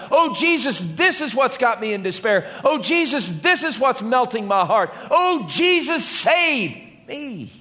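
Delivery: high, pleading prayer to Jesus; model prayer. Shown as a demonstration. Preacher showing the congregation how to cry out, pleading prayer. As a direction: pray it out, each "Oh, Jesus" lifted high. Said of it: "Make a list".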